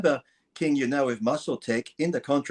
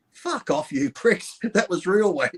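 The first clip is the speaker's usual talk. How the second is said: a mock outburst that jumps high on "Fuck off"; mock angry retort; 6 semitones higher, slower than usual. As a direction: snap back at the commenters, half laughing. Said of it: "You're like".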